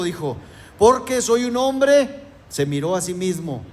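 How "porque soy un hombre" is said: higher, slow pained cry of a prophet; mock-anguished Isaiah confessing; prophet's lament. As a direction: stretch it out as a grieving prophet. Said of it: "Levantó ayes de dolor".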